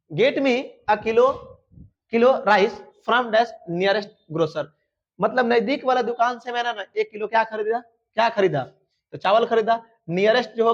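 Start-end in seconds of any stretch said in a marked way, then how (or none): 0.1-4.6 very slow, words laid out one by one; dictation pace. Shown as a demonstration. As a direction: spell the sentence out slowly for the board. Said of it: "teacher dictating sentence".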